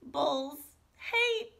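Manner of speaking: slow, high, loud crying wail. A narrator's reading. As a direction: stretch it out in a tearful howl. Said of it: "she wailed".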